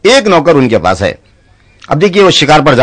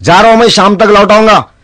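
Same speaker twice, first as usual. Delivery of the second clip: lordly nawab; 6 semitones higher than usual. Acted. Nawab leaving.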